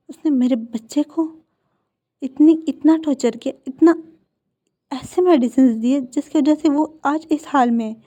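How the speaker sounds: put-on fury building over what was done to her child; angry mother. Mother rages at the man who tortured her son, building anger. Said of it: "बहुत ज़्यादा गुस्से में थी".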